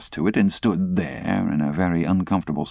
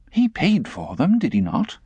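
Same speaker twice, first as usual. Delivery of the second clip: put-on cool girl; 9 semitones higher than usual.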